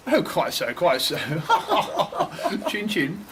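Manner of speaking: plummy aristocrat voice; posh oxford professor. Acted. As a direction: toff enjoying himself. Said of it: "posh men playing homeless".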